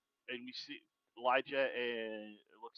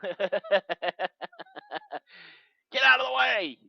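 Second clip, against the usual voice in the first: much higher and louder yell; shout; 8 semitones higher, 11 dB louder than usual. Acted. Warning a friend to move, full shout. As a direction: bellow it to clear the path. Shouted character line, laughing.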